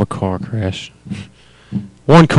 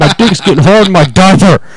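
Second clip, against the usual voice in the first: higher, louder hammed old man; mock old man; 7 semitones higher, 5 dB louder than usual. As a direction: ham up a senile old guy.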